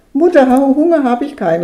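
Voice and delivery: put-on a child calling out through laughter; laughing call. A narrator's reading. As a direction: Hermann calls to his mother from bed, laughing. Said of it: "rief er lachend". (lachend rufen)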